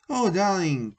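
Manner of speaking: sweet cooing endearment; cooed. A narrator's reading. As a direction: coo it like a lovestruck mermaid. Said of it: "cooed Mermaidia".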